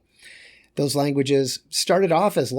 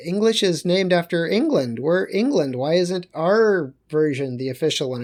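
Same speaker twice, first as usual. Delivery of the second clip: indignant protest; 3 semitones higher than usual. Acted. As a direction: protest as an affronted English crowd. Acts out indignant English protest.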